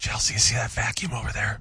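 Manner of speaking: in a whisper. Trying to get someone to do chores without raising the voice, whispering. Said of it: "That's why I whispered".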